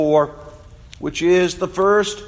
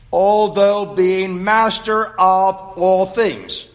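slow, deliberate reading of the verse; slow scripture reading; slower than usual. Acted. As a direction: weigh each phrase of the text, slowly. Reads Galatians four slowly.

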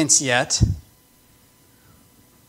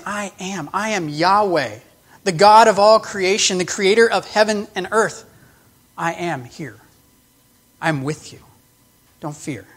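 reassuring Jesus. Acted. Jesus comforting the disciples.

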